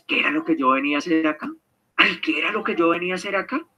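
fast, soft mutter to oneself; confused self-talk. Retold or imitated. Muttering to oneself after forgetting why they walked in. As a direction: rattle it off quietly, lost in the room.

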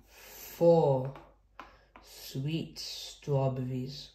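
slow, spaced counting-book reading; measured toddler storytime reading; reading to children. Acted. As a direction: count out each fruit with long pauses.

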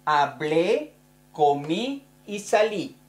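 Hablé, comí, salí each stressed on the last syllable; teacher demo: Hablé, comí, salí stressed at the end; stress on the final vowel. Shown as a demonstration. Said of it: "en la primera persona se pone acento".

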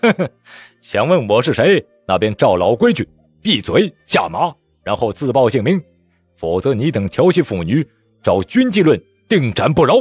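cold sneer turning to threat; cold sneering laugh. Acted. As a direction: threaten with contempt. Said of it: "秦仲海嘿嘿冷笑道".

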